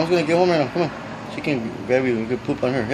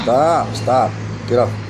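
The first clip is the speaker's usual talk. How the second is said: firm loud stop; 5 dB louder, much slower than usual. Real, not acted. Bird won't get off.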